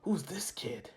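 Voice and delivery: a sly whispered question; curious villain whisper. Acted. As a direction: lean in and breathe it. Villain eyeing the kid.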